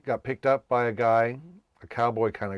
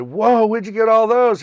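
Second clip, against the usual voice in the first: surprised; 11 semitones higher, 9 dB louder than usual. Retold or imitated. Car full of aluminum cans.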